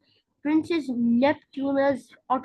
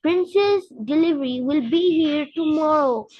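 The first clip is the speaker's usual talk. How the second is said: louder gruff driver shouting back; 2 semitones higher, 3 dB louder than usual. Acted. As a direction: shout it over the truck noise. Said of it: "the driver shouted back".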